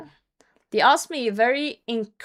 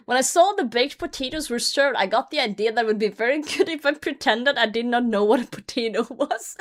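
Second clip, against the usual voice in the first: ordinary delivery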